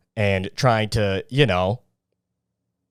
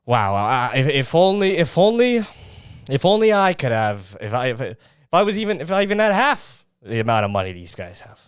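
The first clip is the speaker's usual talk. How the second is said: hammed-up jealous sigh of a poor guy; whiny envious onlooker. Mocking a jealous guy who whines about the rich. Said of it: "You don't need that".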